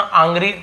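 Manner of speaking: आंग्री opened on an open AA; आंग्री with आ as first vowel; wrong pronunciation. Shown as a demonstration. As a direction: misread angry as AANG-ree. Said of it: "नहीं बोल रहा हूँ".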